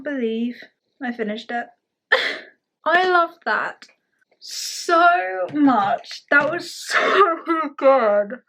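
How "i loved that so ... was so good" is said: higher, laughing through the words; giddy laughing. Real, not acted. Just finished the book, laughing with delight. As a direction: bubble over with laughter and joy.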